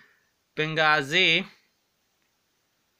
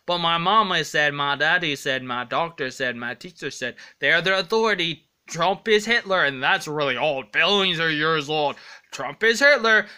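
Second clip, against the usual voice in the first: mocking quote; 4 dB louder than usual. Mocking what opponents say.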